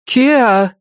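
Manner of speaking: high, loud call of a name. Acted. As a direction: call after her sharply. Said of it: "воскликнула её мать". (громкий оклик)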